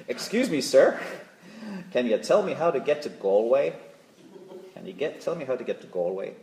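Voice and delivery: mild put-on American accent, polite and lost; a hint of an American tourist asking directions. Preacher voicing a lost American tourist asking the way in a light American accent. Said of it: "excuse my American accent".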